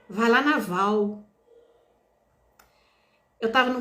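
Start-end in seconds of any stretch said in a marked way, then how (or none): 0.1-1.2 slow, distant inner voice; a hint of a calm divine command; voice of God. God's intuition speaking to her mid-street, slow and distant. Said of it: "falando assim pra mim".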